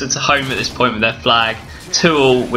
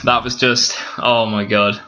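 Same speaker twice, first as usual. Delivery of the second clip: ordinary delivery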